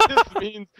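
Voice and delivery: loud high hammy pirate. Pretend. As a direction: bellow it like a cartoon pirate. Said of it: "Pirate voice".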